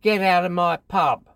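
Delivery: high, loud Cockney yell; Cockney pub landlady shouting; yelling Cockney barmaid. Retold or imitated. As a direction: bark it out like a London landlady.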